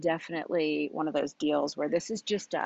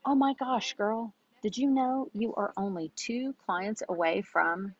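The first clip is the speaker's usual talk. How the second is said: gushing excitement; 4 semitones higher than usual. Retold or imitated. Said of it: "I used to say this exactly".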